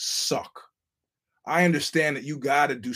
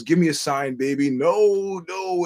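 a man begging the dead for a sign; mock desperate plea; pleading then ghostly wail; 3 semitones higher, 4 dB louder, slower than usual. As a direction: beg loudly for a sign, then a higher ghostly no. Steve Martin begging, ghost answering.

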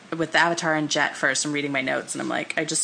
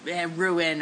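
sputtering foiled villain; slower than usual. Retold or imitated. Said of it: "stupid villain exit line where he's like".

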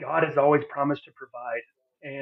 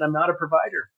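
a touch louder, pleading I'm not a provider; anguished; 3 semitones higher, 4 dB louder than usual. Retold or imitated. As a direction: cry it out to your friend. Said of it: "I'm here crying to you".

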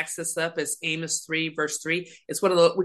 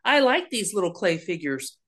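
God voiced fondly; 4 semitones higher than usual. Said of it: "he was like".

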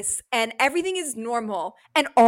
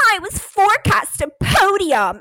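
whiny driver; 8 semitones higher, 5 dB louder than usual. Retold or imitated. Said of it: "he's always like".

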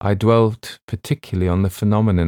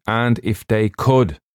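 deliberate, lightly voiced stubborn doctor; ship's doctor, stubborn. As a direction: play the doctor refusing to budge.

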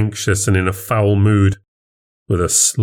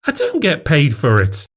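higher, affronted protest; indignant denial; 6 semitones higher than usual. Acted. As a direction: reject the accusation. Wife denies accusation.

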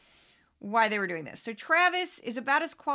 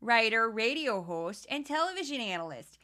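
crazy Midwestern accent. Shown as a demonstration. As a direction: read the bio in a hint of a Midwestern accent. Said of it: "use his title in this voice".

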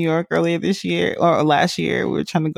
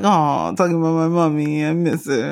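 mocking baby. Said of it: "Look at you missing your mom".

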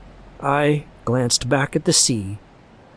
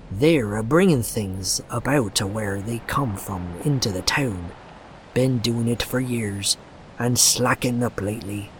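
put-on hushed, ominous old man; old sailor voice. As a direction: warn like a half-mad old fisherman. Old Zadok ranting.

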